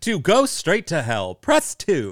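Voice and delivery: loud, swooping, phone-menu style movie announcer voice. Speakers riffing on a movie phone line menu, Moviefone guy voice. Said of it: "movie phone voice guy".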